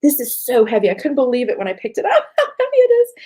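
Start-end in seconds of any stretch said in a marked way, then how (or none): 2.0-3.1 high, louder laugh into the words. Real, not acted. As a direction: laugh in disbelief as you say it. Amazed at heavy gold leaf.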